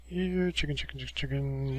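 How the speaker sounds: sing-song chicken call. Pretend. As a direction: call them like a farmer. Calling chickens again.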